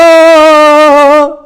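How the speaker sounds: long, high demonstration wail; hammed-up loud bawling; loud wailing cry. Shown as a demonstration. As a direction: cry out loud on one held high note. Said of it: "자, 한번 이렇게 울어볼게요".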